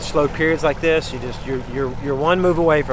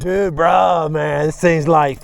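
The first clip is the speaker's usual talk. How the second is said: surfer voice; 3 semitones higher, 4 dB louder, slower than usual. Real, not acted. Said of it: "you sound like a surfer, dude".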